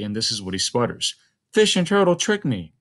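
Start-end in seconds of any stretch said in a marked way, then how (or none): 1.5-2.7 sharply higher, angrily sputtered cry; angry sputter. A narrator's reading. Tricked spider Anansi sputters his furious cry. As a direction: spit the words out like a furious cheated spider. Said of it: "he cried angrily".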